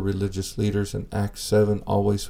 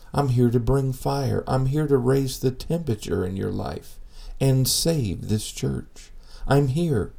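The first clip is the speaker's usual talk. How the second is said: voice of Jesus calling; 2 semitones higher than usual. Retold or imitated. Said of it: "as the voice calls out".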